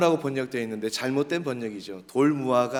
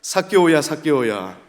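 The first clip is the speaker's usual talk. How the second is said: loud call that drops on the repeat; acting as Jesus; 7 dB louder than usual. Shown as a demonstration. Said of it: "한번 연기를 한번 해봅시다".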